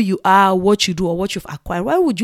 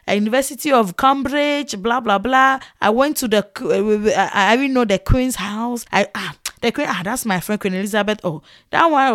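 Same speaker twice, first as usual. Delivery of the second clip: boastful show-off. Retold or imitated. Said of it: "they just be boasting".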